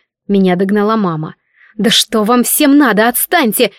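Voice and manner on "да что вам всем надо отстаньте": growled. Acted. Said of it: "прорычала я".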